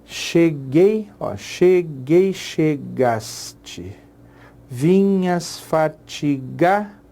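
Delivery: drawn-out, stretched syllables; slow scansion. Shown as a demonstration. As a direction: stretch each syllable to count it. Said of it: "Tem dez sílabas aí".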